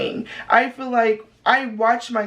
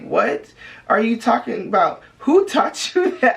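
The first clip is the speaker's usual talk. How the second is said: 1 confused. Retold or imitated. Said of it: "I used to get confused".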